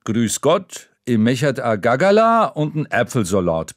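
dad bluffing his way through in Franconian; dad's Franconian. Acted. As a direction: tourist dad ordering in bad Franconian. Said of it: "Papa sagt".

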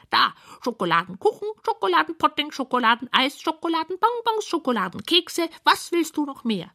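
high, squeaky, proud listing of treats; bright high creature voice boasting; proud little creatures. Acted. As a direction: show off the fridge like tiny gluttons. Creatures proudly show their stock.

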